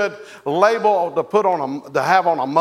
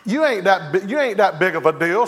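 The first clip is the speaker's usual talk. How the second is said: playful teasing; faster than usual. Pretend. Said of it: "tell your husband, say".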